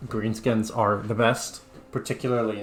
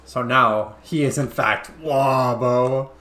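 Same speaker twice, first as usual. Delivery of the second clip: orc voice; 5 dB louder, slower than usual. Pretend. Naming the orc hero.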